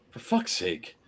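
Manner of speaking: low, softened muttered curse; really low. Retold or imitated. Traveler swearing to himself at the gate, really low. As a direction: curse quietly to yourself. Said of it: "just like that, just really low".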